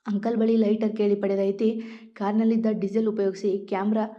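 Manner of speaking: usual speaking voice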